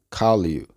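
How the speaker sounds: "call you" linked as one word; words joined. Shown as a demonstration. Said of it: "se unen y se pronuncian". ("call you" pronunciado unido)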